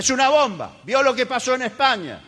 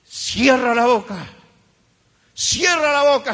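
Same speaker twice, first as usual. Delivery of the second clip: stern command; 4 dB louder than usual. Acted. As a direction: shut them down sternly. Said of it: "preacher commands the complainer".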